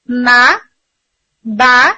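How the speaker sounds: ما and با said short and crisp as the lips part; syllable demo. Shown as a demonstration. Teacher demonstrates voweled letters for students: ما، با. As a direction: pop out ما then با cleanly. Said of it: "تو sound آئے گی متحرک حرف کی، like".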